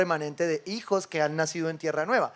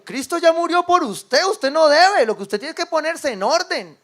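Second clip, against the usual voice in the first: higher, louder, slow preaching; fervent preaching; 9 semitones higher, 8 dB louder than usual. Real, not acted. Pastor declares to the congregation they owe nothing, loud and slow. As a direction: proclaim it to the whole church.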